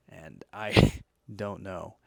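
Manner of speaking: laughing. Real, not acted. Laughing at drinking energy drink late.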